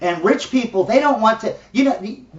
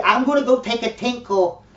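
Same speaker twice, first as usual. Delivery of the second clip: mocking prissy euphemism; 5 semitones higher than usual. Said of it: "some crazy, yeah".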